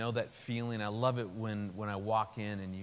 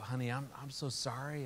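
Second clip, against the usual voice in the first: soft fatherly sympathy; retold consoling, softer voice; tender sympathy; 5 dB quieter than usual. Dad consoling his daughter after the breakup, tender sympathy.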